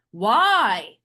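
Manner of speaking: glitchy, warped vocal sound; distorted voice. Real, not acted. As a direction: voice mangled by an audio glitch. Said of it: "some audio malfunction when you opened your mouth".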